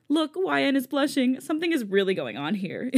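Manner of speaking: playful teasing tone. Acted. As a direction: tease her about blushing.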